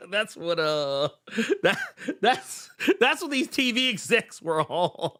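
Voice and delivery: high, laugh-broken words; laughing while talking. Real, not acted. Friend jokes about what TV execs were on, laughing through it. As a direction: get it out through real laughter.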